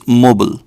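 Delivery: mobile said MOH-bull; American pronunciation. Shown as a demonstration. Teaching the US way of saying mobile, American pron. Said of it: "Americans call this".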